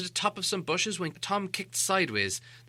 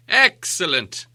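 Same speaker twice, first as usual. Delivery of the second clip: slow, satisfied wizard; pleased wizard; 3 semitones higher, 8 dB louder, slower than usual. Acted. Gandalf stepping out to Bilbo, slow and pleased. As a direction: savour the word. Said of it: "said Gandalf".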